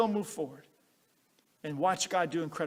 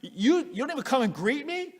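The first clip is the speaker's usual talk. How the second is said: higher, louder proud indignation; indignant commander; 6 semitones higher, 4 dB louder than usual. Retold or imitated. Naaman snubbed by the prophet, indignant rant. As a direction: puff up, offended and insulted. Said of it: "Naaman gets so frustrated".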